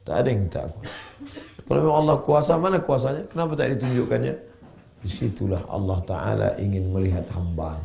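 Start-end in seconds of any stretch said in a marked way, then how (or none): 1.7-4.3 high, insistent demand for proof; sceptic's challenge. Acted. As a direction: throw it out as a doubter's challenge. Acts out a sceptic challenging God.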